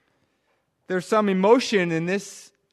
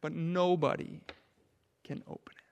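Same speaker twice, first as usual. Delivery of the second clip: sudden hush; 2 semitones lower, 11 dB quieter than usual. Acted. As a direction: let the sorrow fall almost silent. Despair as nobody opens it.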